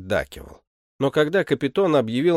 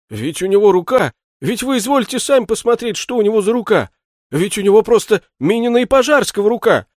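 put-on higher, louder, a frightened drunkard begging the butler; pleading shoemaker; 8 semitones higher, 6 dB louder than usual. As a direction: plead with him, pitch up in alarm. (жалобный испуганный голос башмачника, выше и громче)

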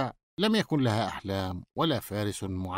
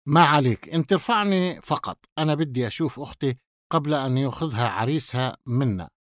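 confident brush-off, punchy at first; self-assured, strong start then settling; full confidence. Acted. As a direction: wave off the warning with assurance. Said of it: "فرد عليه بثقة كاملة".

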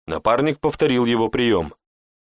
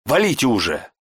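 angry hiss; 2 semitones higher than usual. A narrator's reading. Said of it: "злобно прошипела Шантра".

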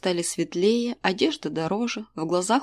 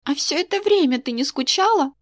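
put-on higher, sharp girl's jab; spiteful question; 7 semitones higher, 3 dB louder than usual. A narrator's reading. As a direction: needle her mother on purpose. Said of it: "поинтересовалась она зло". (дочь зло спрашивает мать, высоким голосом)

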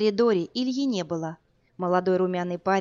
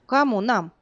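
taken aback; 3 semitones higher, 5 dB louder than usual. Acted. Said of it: "опешила Варя".

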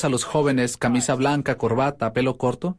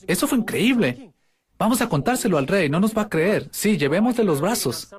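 raised, eager servants' chatter; excited servants; 5 semitones higher than usual. Pretend. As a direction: play the servants rushing to tell the king. (siervos emocionados, voz algo más aguda)

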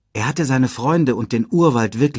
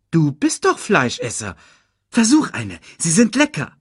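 high, quick cartoon meerkat; chirpy little sidekick voice; 6 semitones higher than usual. Timon urges.

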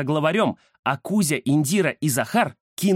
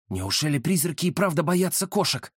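inner surprised wonder; 2 semitones higher than usual. Acted. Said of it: "удивился про себя Рамзес".

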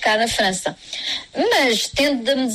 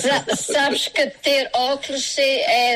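laughing; 3 semitones higher, slower than usual. Real, not acted. Jokes about glasses and old age.

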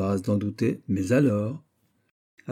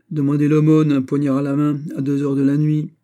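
laughing; 5 semitones higher, 7 dB louder than usual. A narrator's reading. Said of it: "reprit Don Graviel en riant".

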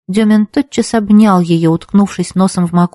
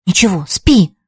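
ordinary delivery, nothing marked

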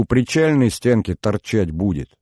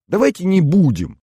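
high, loud eager exclamation; восторженно воскликнула; exclaiming; 11 semitones higher, 6 dB louder than usual. Acted. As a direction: burst out with it, pleading. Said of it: "воскликнула Маша".

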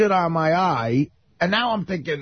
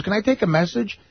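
sweet voice. Retold or imitated. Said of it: "very sweet voice".

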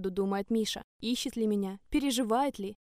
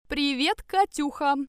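tipsy, hiccuping greeting; slurred drunk hello with a hiccup; 3 semitones higher, 4 dB louder, slower than usual. Acted. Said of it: "Пьяно икнул хозяин квартиры".

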